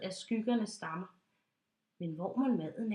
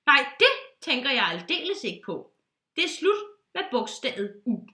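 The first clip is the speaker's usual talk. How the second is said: louder, emphatic insistence; firm declaration; 7 dB louder than usual. Acted. Pilot banning the letter u, loudly firm. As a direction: lay down the law.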